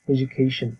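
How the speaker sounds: "এডুকেশন" with a j sound, "e-ju-kay-shn"; falling, careful "e-joo-KAY-shn" for "এডুকেশন"; correct IPA pronunciation. Shown as a demonstration. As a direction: model "এডুকেশন" whole, d turned to j. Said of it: "উচ্চারণটা হবে".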